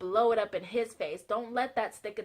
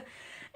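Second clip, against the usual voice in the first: brief laugh; 15 dB quieter than usual. Real, not acted. Laughs at herself.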